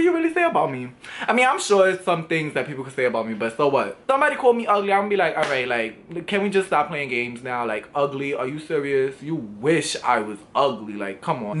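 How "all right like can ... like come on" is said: lower, dismissive mock reply; unimpressed retort. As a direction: brush the insult off in a low, unbothered voice. Imagined reply to being called ugly.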